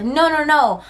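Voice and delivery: high, mock-reassuring slimy guy; a hammed-up trust-me voice; mocking the safe guy. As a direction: parody his I'm-safe act. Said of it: "Acting like he's safe".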